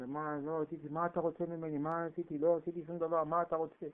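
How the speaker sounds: playing innocent. Jacob playing dumb before Laban, soft mock innocence. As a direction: play the fool who did nothing. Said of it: "משחק אותם".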